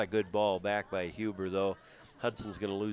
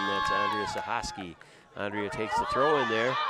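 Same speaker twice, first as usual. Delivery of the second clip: louder, faster play-by-play as the clock runs down; rising excitement; 4 dB louder than usual. Real, not acted. Commentator calling the final minutes to the crowd, getting louder and excited. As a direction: call it with mounting urgency. Late pressure in a close game.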